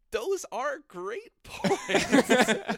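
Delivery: slow, loud, put-on gravity; mock solemn. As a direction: drag it out like a solemn verdict.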